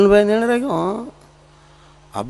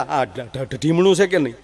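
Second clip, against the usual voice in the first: doctor scolding, stuck on every syllable; stammering doctor; 6 dB quieter than usual. Retold or imitated. Stammering doctor scolding a late-night patient, mild stutter. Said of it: "ન્યા જે મને કીધું".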